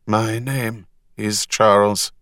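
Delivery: slow, watery burbling voice. Acted. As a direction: speak as if through bubbling water. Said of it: "in a watery voice".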